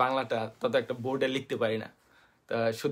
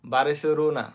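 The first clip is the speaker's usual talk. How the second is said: put-on Japanese accent. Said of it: "এরা কইব".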